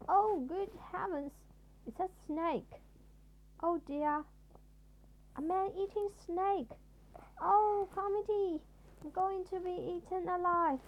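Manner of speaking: high, loud terrified wailing; hysterical panic. A narrator's reading. Mister Jelly mistaking a worm for a snake, panicking. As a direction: shriek about being eaten.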